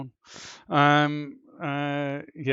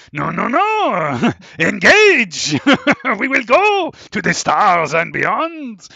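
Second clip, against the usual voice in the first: louder, higher, grand captain voice; Picard impression; 8 semitones higher, 14 dB louder, slower than usual. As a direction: command the bridge with pompous gravity. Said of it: "does not have a French accent".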